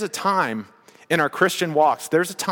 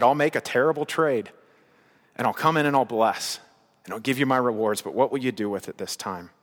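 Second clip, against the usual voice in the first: God gently questioning; 4 semitones lower than usual. Acted. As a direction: ask it like a patient father who already knows. Preacher voices God to listeners.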